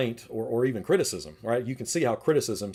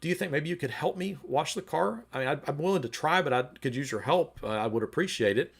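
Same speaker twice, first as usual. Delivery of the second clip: gentle wife; 3 semitones higher than usual. Retold or imitated. Wife gently answers her husband's insult, lightly voiced. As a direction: gently ask for a hand. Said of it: "responds actually kind of gently".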